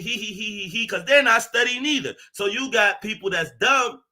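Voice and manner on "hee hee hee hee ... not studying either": mocking giggle.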